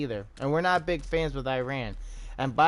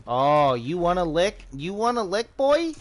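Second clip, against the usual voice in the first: taunting; 2 semitones higher than usual. Real, not acted. Taunting enemy during gunfight.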